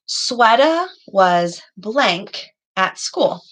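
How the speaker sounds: very slow, pausing on blank; slow fill-in-the-blank. Shown as a demonstration. Teacher reading a Mad Libs sentence to pupils, very slowly. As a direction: stretch the sentence out so kids hear the gap. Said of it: "What are some examples that we have?".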